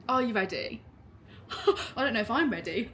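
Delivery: normal talking voice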